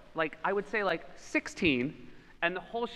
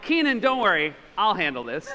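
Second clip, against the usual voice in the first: louder, cocky reassurance; mock confident; 3 semitones higher, 5 dB louder than usual. Reassuring friend Kenan at the rental desk, mock confident. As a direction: act like the smooth fixer. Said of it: "and I'm like".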